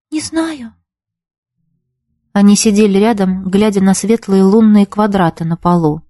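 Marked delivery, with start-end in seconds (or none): 0.1-0.7 a high, much softer, near-breathless answer; very quiet. A narrator's reading. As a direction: let it almost vanish. Юлька answers quietly, lost.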